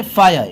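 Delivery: फायर said "FAA-ya", r dropped; "eye" sound in फायर. Shown as a demonstration. Teacher giving an example of i as eye, "faa-ya" for फायर. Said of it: "आई भी बोलते हैं".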